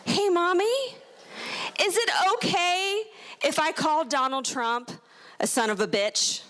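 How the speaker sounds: put-on high, innocent little kid asking; sweet kid asking mom a question; lightly voiced innocent son; child's voice. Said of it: "he said".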